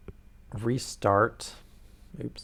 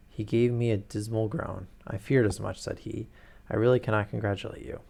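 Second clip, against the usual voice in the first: steady read-aloud narration with quoted dialogue; reading the novel aloud to the stream, evenly paced; story narration. A narrator's reading. Streamer reads Sherlock Holmes aloud to her chat, narrating steadily.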